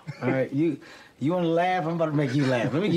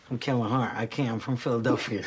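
pleading insistence; 4 semitones lower than usual. Retold or imitated. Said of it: "That's what I told him".

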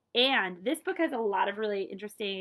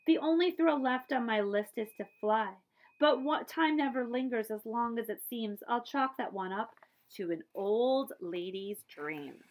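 put-on wistful old aunt. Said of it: "She gave a sad smile".

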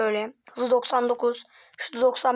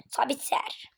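whispering; 7 dB quieter, slower than usual. Acted. Quiet commentary aside.

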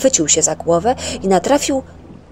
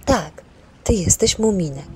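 calm. Acted. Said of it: "powiedziała spokojnie".

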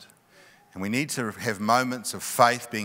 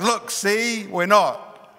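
higher and louder, pointing it out; nervous exclaiming; 8 semitones higher, 5 dB louder, much slower than usual. Retold or imitated. Wife holding up the test stick, higher, louder, excited. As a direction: insist a little too eagerly.

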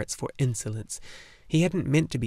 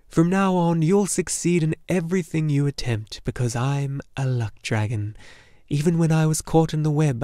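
louder, buoyant dragon voice; lightly voiced jolly dragon, upbeat; cheerful luck dragon; 2 semitones higher, 3 dB louder than usual. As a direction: cheer up the boy with sure confidence. Luck dragon encourages Atreyu.

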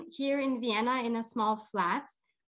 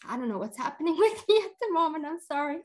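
crying, laughing through it; 5 semitones higher, 3 dB louder, faster than usual. Real, not acted. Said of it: "so I can stop crying".

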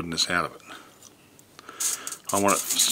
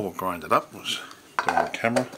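sniffling. Real, not acted. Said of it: "excuse my sniffling".

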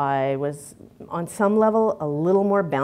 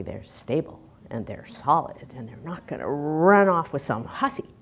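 mock business voice; 9 dB louder than usual. Voicing business views of men.

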